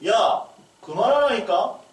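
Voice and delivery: mother's voice. Retold or imitated. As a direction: play the fed-up mother snapping. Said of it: "엄마 목소리로". (엄마 목소리로 높고 크게 느리게 꾸짖기)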